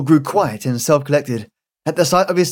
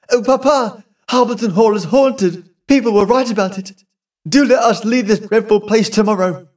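higher, mildly frightened plea; begging her papa to leave the house; pleading daughter; 6 semitones higher than usual. A narrator's reading.

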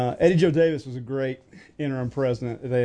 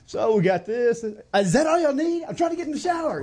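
high mock voice; 8 semitones higher than usual. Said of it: "they're just like".

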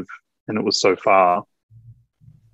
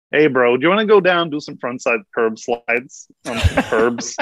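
a shy Aussie playing a skater bro; American accent; 2 semitones higher than usual. Shown as a demonstration. Australian guest attempting an American skater accent. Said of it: "it sounds like shit".

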